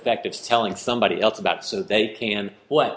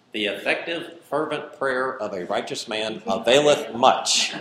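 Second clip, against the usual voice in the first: put-on old King James reading. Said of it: "how have you heard it translated".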